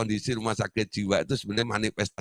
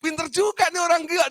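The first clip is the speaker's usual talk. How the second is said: amused inner voice; 4 dB louder, faster than usual. Retold or imitated. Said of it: "dalam hati saya".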